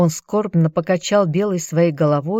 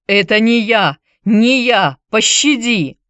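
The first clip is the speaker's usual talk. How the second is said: higher, louder panicked begging; terrified pleading; 4 semitones higher, 4 dB louder than usual. Acted. Chilon, caught by Glaucus, begs in terror. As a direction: beg for your life in panic. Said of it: "застонал".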